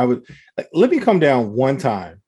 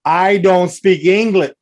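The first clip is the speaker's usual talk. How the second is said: louder and slow, every word spelled out; mock loud slow vendor; 5 semitones higher, 6 dB louder, slower than usual. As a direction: talk down to her like she's deaf, slowly. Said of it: "loud, slowly".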